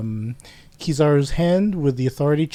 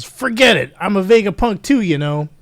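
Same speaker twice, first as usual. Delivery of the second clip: acted smugness; 4 semitones higher, 4 dB louder than usual. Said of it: "looking very smug".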